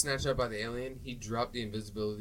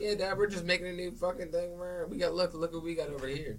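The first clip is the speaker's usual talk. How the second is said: son's eager voice; 7 semitones higher than usual. Retold or imitated. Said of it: "he's like".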